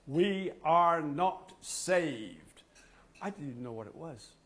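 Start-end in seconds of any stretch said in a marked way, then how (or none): 0.1-2.6 very slow, loud, each word weighed. Retold or imitated. The voice in the vision, at its loudest and slowest. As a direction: stretch every word out like a final warning. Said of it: "louder and louder".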